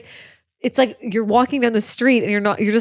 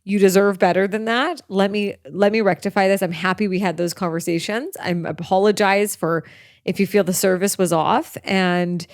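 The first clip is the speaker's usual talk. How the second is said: retold apology; 3 semitones lower, 6 dB quieter than usual. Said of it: "but just saying".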